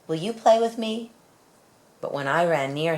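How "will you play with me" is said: hopeful asking. Acted. Child asks animal to play.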